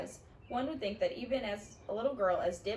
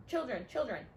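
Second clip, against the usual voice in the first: mock cry for help; 7 semitones higher than usual. A narrator's reading. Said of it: "Klaus cried".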